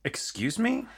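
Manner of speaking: high rising outraged excuse me; indignant excuse me. Shown as a demonstration. Host demoing the phrase, high and indignant. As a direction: pitch it up in shock. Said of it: "Excuse me" works the same thing".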